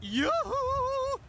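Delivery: very high, drawn-out falsetto call; cartoony camp call. Cartoon character answering a roll call, cartoony camp. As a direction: trill it out, exaggerated and camp. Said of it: "The really cartoony gays".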